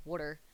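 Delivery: "water" said as "wooder"; Pennsylvania pronunciation. Retold or imitated. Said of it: "not saying water".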